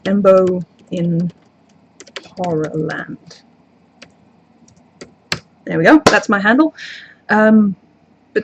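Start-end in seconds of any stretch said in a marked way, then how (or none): 0.1-3.4 slow writing-down pace. Real, not acted. Streamer writing her handle down for a viewer, slow and drawn out. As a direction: spell it out slowly as if writing along. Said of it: "I'll just write it down".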